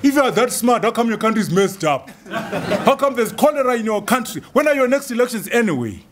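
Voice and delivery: mocking skeptic. Davos delegate mocking his country, with laughter. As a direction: poke fun at him as a mocking delegate. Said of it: "They say".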